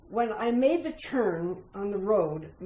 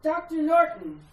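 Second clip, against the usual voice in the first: raised high identifying call; high, loud hail; 8 semitones higher, 5 dB louder than usual. Acted. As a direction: announce yourself across a distance. Doctor calls out own name.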